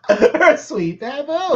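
high, loud, very drawn-out mock croon; mock a lovesick man, stretching every word; exaggerated pining whine; Cole. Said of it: "That's what Cole sounded like".

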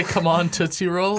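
laughing through a mock lyric; slow, giggling quote. Mimicking the misheard backwards lyric.

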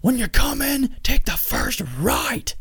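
very high, slow mock boyfriend voice; imitating the boyfriend. Boyfriend quoted curtly.

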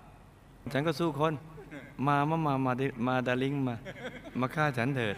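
slow, soft coaxing dare instead of a shout; too sweet taunt. Retold or imitated. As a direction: lure him in sweetly, very slowly. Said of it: "หวานไปใช่ไหม". (ท้าช้าๆ หวานๆ แทนการตะโกน)

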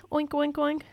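a lightly done oink, oink, oink; mild mock pig grunts; pig sound. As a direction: oink like a piglet. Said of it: "That's my pig sound".

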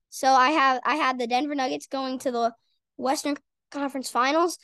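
hiccups cutting in; talking through hiccups; hiccuping. Real, not acted. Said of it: "Oh my gosh, these hiccups".

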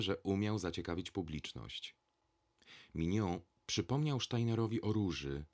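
ordinary delivery, nothing marked

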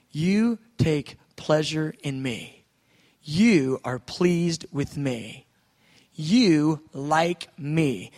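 slow, savoured words to God; a slow, tender prayer to God; slow meditative affirmation. Shown as a demonstration. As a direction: linger on each word like a prayer. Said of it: "This is how I meditate".

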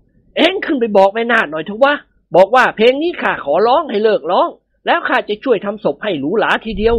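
put-on old master's voice. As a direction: boss the servant about from up high. เจ้าคุณสั่งเจ้าแห้ว. (เสียงเจ้าคุณสั่งบ่าว)

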